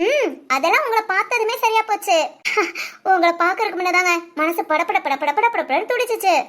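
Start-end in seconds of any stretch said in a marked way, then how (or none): 2.2-3.1 short, breathy unvoiced chuckle; laugh. Wife relieved at seeing husband, soft breathy laugh.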